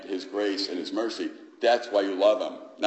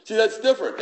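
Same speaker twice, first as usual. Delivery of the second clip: "See, that's different" said much higher and louder; emphatic preaching; 13 semitones higher, 7 dB louder, faster than usual. Shown as a demonstration. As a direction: drive "See, that's different" home with force.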